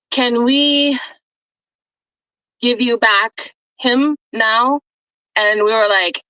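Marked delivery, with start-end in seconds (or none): 0.1-4.8 slow, halting ask with long pauses; hesitant request. Retold or imitated. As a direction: retell an awkward request, word by word. Retold awkward request to return dog.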